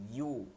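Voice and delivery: ইউ like English "you", pressed from mid-tongue. Shown as a demonstration. Teacher showing where the sound starts, pressed yu. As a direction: push ইউ out from the middle of the tongue. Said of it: "জিহ্বার মধ্যখান থেকে".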